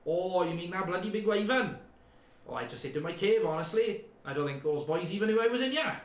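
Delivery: lightly voiced chatty hermit; a hint of a cheery cave dweller.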